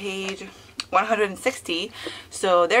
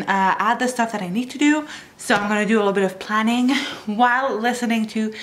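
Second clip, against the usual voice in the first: out of breath. Real, not acted. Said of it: "I don't know why I'm out of breath".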